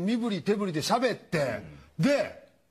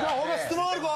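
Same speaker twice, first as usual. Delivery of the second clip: Crush voice; 6 semitones higher, much faster than usual. Retold or imitated. Turtle picks the speaker.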